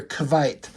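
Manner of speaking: "Kvite" said with a kv at the start; "Kvite" in a light Russian accent, kv for qu; Kvite pronunciation. Shown as a demonstration. Reviewer sounds out the accented spelling with kv. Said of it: "it's spelled K V I T E".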